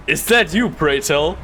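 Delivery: mock-posh reunion of old friends; playing a theatrical reunion in an old-fashioned film; hammed-up period drama. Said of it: "You're talking to a friend you haven't seen in a long time".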